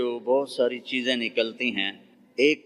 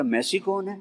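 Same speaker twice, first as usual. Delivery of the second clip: much higher, baffled ask; puzzled question; 8 semitones higher than usual. Retold or imitated. Preacher asks the boy who Messi is, high and puzzled. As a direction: sound truly lost about the name.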